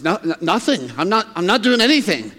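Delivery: stammered, mildly startled denial; startled boy. Acted. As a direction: trip over the words like a boy caught out. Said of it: "kinda startled".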